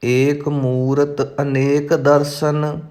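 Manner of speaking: measured, careful recitation of sacred verse; intoned verse for learners; scripture recitation. Acted. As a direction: recite each phrase distinctly, holding the endings.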